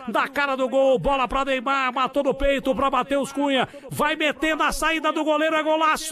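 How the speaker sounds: high, loud, building play-by-play; rising to a shout at the goal; explosive goal commentary. Pretend. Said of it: "Muito bom, hein?".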